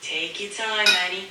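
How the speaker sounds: lightly put-on Italian accent. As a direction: chat with a hint of an Italian accent. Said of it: "you don't have to do the Italian accent".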